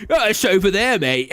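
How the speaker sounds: jokey imitation of a breezy English accent. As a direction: play up a matey English accent. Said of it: "In complete English accent".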